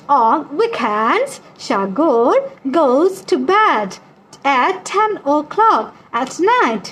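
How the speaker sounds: very slow, word-by-word reading; drawn-out classroom dictation pace; slow read-aloud. Real, not acted. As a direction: read it out slowly for learners. Reads exercise sentence aloud.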